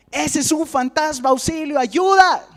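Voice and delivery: high, hammed-up call for help; acted panicked cry. Disciples begging for help from a ghost, acted panic. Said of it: "comienzan a temblar y gritan".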